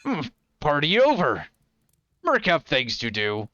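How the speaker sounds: lightly voiced blunt brute in broken speech; a hint of a simple brute; brutish Merc. Merc to the party announcing she leaves, a lightly voiced brute.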